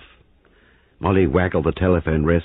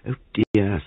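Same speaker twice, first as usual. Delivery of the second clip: sighing; 5 semitones higher than usual. Acted. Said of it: "sighed Molly".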